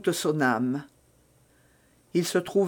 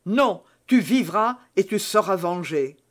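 exclaiming. Acted. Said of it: "s'écria Felton".

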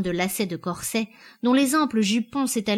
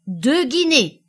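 louder, higher auction cry; shouted bid; 6 semitones higher, 7 dB louder, slower than usual. A narrator's reading. Auctioneer raising the price, shouting. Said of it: "cria l'homme".

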